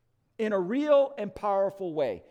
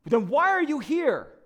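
louder and higher, a pressing interrogation; stern angel; 7 semitones higher, 5 dB louder than usual. Retold or imitated. Supervising angel quizzing the thief on doctrine, loud and pressing. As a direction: grill him like an official.

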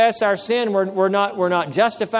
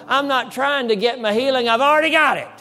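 raised, insistent declaration; acted defiance, pitched up and driven home; emphatic retort; 5 semitones higher than usual. Minister telling the devil healing is his, emphatic retort.

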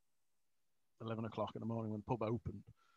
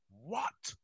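slow, rising "What?" like he barely listens; imitating his own slow distracted "What?"; drawn-out what; 3 semitones higher than usual. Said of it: "she's saying".

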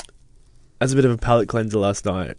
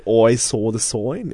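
slow, whiny Bostonian sing-song, lightly done; a hint of a whiny Boston woman singing; whiny Boston singer; slower than usual. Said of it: "she had this really whiny voice".

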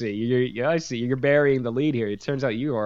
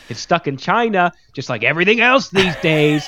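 louder, higher mock-grandpa rant; grumbling grandpa; 7 semitones higher, 7 dB louder than usual. Co-host mimicking his partner's remark, as a ranting grandpa. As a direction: put extra mustard on it, like somebody's grandpa. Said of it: "you sounded like somebody's grandpa".

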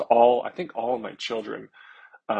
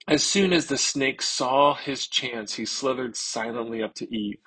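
storybook reading. Acted. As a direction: tell it like a bedtime story. Reads children's Bible story.

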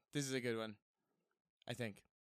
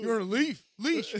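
loud, high gloating jeer; mock taunt; 6 semitones higher, 8 dB louder than usual. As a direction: jeer at a leashed dog, hammed up. Acting out taunting a leashed dog.

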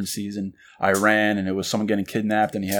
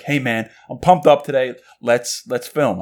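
pumped up; 3 semitones higher, 3 dB louder than usual. Retold or imitated. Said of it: "you're super jazzed".

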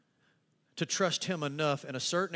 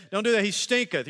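King James Martha; 7 semitones higher, 9 dB louder than usual. Retold or imitated. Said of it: "I learned this in the King James".

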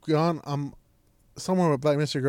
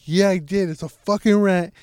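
raised, emphatic mock outrage; sister's outraged voice; 4 dB louder than usual. Sister insisting she saw a rat, mock outraged. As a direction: punch the swearing like an all-caps rant. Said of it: "put in her voice".

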